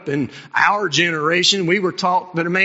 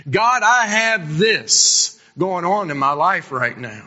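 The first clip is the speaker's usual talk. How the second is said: broken, begging prayer; pleading prayer; 4 semitones higher than usual. Retold or imitated. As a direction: pour your heart out to God. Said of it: "he spilled his guts out to God".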